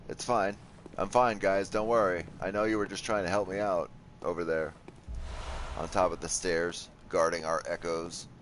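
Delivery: sarcastic mock reassurance; dry sarcastic complaint. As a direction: pretend it's fine, clearly not. Sarcastic about lost echoes.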